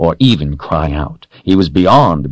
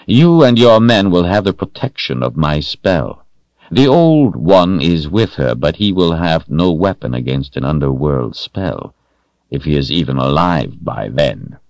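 Rahl commanding. Acted. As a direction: speak down to a servant, cold authority. Rahl continues orders.

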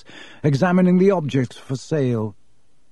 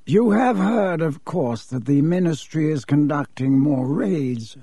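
cool, superior aristocrat; lightly voiced cold nobleman; haughty Malfoy. Malfoy warns Borgin about raids, cool and superior.

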